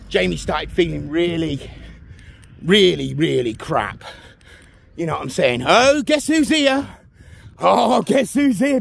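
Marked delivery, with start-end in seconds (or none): 5.7-8.8 slow, higher playful build-up; teasing announcement. Real, not acted. Vlogger teasing viewers at a bench, playful announcement. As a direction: tease the viewers with a reveal.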